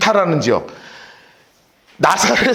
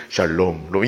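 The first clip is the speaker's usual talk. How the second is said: deep echoing greeting like a voice in a cave; booming cave echo; 6 dB quieter, slower than usual. Acted. Angel greeting Mary, echoing as if in a cave. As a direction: make it ring like it echoes off cave walls. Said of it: "막 동굴 울리는 소리로".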